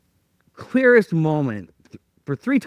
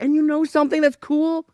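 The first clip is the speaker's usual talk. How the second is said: voice of God; 8 semitones higher than usual. Retold or imitated. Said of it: "And then God was like".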